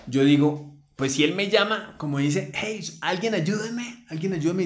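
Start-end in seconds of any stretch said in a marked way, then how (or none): 2.5-4.6 desperate plea. Retold or imitated. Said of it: "y súper desesperado".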